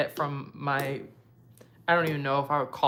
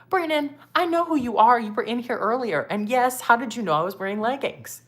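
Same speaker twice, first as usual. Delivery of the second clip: much higher and louder, laughing teasingly; laughing tease; 8 semitones higher, 7 dB louder than usual. Real, not acted. Creator laughing as she teases a viewer named Brandon. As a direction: call him out through laughter. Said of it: "I can't with him".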